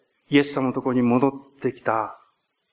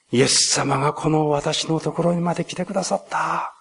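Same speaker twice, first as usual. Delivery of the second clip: heartfelt gratitude; 4 semitones higher than usual. Retold or imitated. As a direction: voice rising high, near tears with joy. Samaritan voiced giving heartfelt thanks. (涙ぐむほどの心からの感謝)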